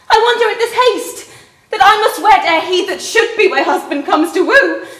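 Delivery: scornful laugh. Acted. Juliet scorns the hasty marriage.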